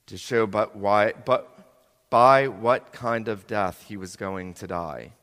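measured, solemn Bible reading; scripture reading. Acted. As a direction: read the Gospel aloud to the congregation. Reads scripture aloud.

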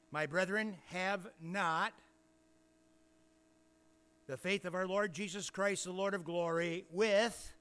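measured, emphatic Bible reading; scripture reading. Real, not acted. Preacher reads James to the congregation, solemn scripture reading. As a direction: read the verse out with weight and pauses.

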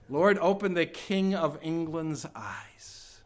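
slow, hushed plea to the Lord; slow dying prayer for the king. Retold or imitated. Repeats last words slowly, softly.

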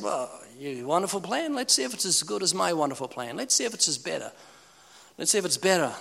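a hint of a doubting man; mock skeptic. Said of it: "He would have said".

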